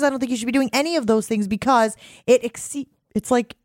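words broken by a burp; talking while burping. Real, not acted. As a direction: talk through a burp. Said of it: "I'm burping up my apple".

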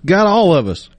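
high-pitched squirrel buddy, dropping at the end; mock storytelling in a high critter voice; squirrel swapping stories. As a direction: play a squirrel reminiscing with a pal. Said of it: "They're like".

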